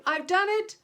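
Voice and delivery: loud, high triumphant shouting; excited shout. A narrator's reading. Spaceman hopping out to tell the chief, shouting with joy. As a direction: burst out with the good news.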